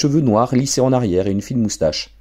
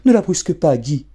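mother's soothing plea; 8 semitones higher than usual. Acted. Wife defends daughter.

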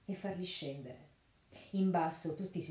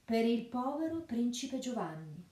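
mocking sheriff; 6 semitones higher than usual. A narrator's reading. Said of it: "rispose lo sceriffo".

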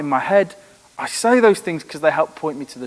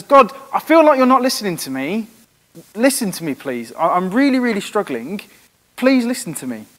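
pleading cry to God; 5 semitones higher than usual. Retold or imitated. David crying out to God, a mild voiced plea. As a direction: beg God to listen. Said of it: "he cries out and says".

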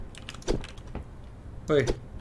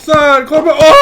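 sudden loud cry, higher; startled shout; 8 semitones higher, 6 dB louder than usual. Real, not acted. Cornered by a pack of dogs in the game, loud shout. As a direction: yelp out in real alarm.

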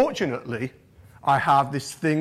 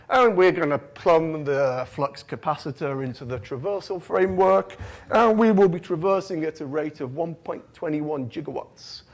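put-on accent swagger. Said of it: "gave me a bit of swagger".

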